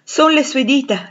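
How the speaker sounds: high, loud, slow cry of recognition; amazed exclamation. A narrator's reading. Rochester recognising Jane's fingers in his hand, amazed exclamation. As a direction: exclaim in joyful disbelief. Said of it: "esclamò".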